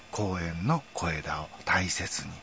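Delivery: slow, soft put-on voice; a light mock of a TV catchphrase; imitating the catchphrase. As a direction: drawl the old slogan gently. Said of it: "とか言ってね".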